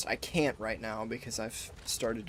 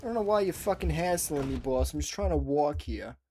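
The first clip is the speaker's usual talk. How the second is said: lightly hammed New York accent; terrible New York accent; 2 semitones higher than usual. Streamer retrying a pedestrian's complaint to boss in a shaky-quality New York accent. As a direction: protest like a badly imitated New Yorker. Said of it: "my New York accent is fucking terrible".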